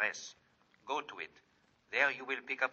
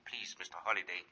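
softer, unvoiced whisper; whispered plea; 4 semitones lower, 5 dB quieter than usual. Martin urging Holliday on the phone, whispered. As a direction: whisper it urgently, pleading. Secretive phone call, pleading.

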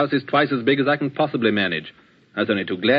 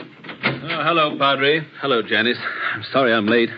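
slightly breathless greeting; out of breath. Real, not acted. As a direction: talk like you just ran here. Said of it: "You seem a good deal out of breath".

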